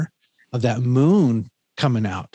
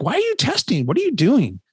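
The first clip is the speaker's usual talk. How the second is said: mock whiny complaint; 10 semitones higher than usual. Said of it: "We're like".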